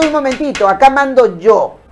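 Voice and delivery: a firm, commanding voice taking control; a touch of stern authority; firm in charge. Retold or imitated. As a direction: tell your own brain who's boss. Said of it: "Pero si usted le dice".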